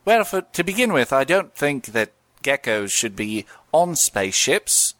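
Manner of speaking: a hint of a Cockney gecko, slowing down; playing the insurance gecko, only lightly put on; lightly voiced Geico Gecko. Answering a mock interview as the Geico Gecko, lightly voiced. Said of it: "Geico Gecko".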